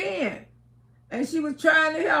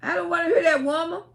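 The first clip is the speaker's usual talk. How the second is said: imitating dad's mad protest, higher; retold irritated husband cutting his wife off; 4 semitones higher, faster than usual. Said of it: "used to get so mad and say".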